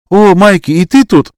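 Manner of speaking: high, loud bright surprise; light up at spotting a friend; surprised girl. A narrator's reading. Snezhana spots Mike in the fog, surprised girlish voice.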